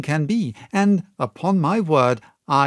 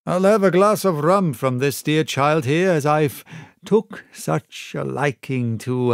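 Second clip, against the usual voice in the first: sly pirate. Acted. Black Dog replies.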